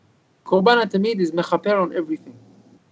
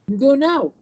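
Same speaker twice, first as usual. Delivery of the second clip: raised, higher order; firm command; 8 semitones higher, 3 dB louder, slower than usual. Retold or imitated. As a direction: send him out at once. Rabbi orders boy to leave.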